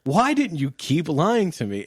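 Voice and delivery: fake-indignant at the liar; mock outrage. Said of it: "And I was like".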